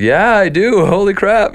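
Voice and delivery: high, thrilled agreement; retold amazed excitement. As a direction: act out a stunned, eager yes. Retold amazed yes to singer.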